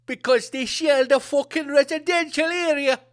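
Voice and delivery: put-on a loose, wandering Jamaican-tinged accent; accent drifting towards Jamaican. Host mimicking a war bulletin, accent drifting Jamaican. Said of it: "That's getting a bit Jamaican".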